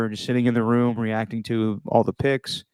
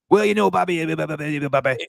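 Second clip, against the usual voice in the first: mock Waterboy mumble; 4 semitones higher, faster than usual. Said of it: "side by sides between him and the guy from The Waterboy".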